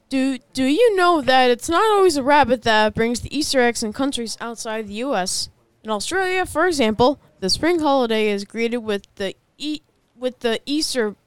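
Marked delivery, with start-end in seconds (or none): 0.1-8.4 newscaster voice. Acted. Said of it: "In your most serious newscaster voice".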